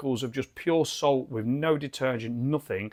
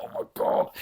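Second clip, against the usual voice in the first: whispered thought. Retold or imitated. Inner thought quoted.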